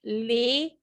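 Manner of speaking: ले said clearly with an ay glide; demo word. Shown as a demonstration. Teacher modeling the ay vowel for repetition, clear. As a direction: model ले as lay. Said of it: "मेरे साथ साथ बोलिए".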